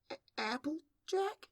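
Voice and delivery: very high, hesitant filly voice; startled question. Acted. Dazed filly finding Applejack under her, startled question. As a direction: stammer the name in startled doubt.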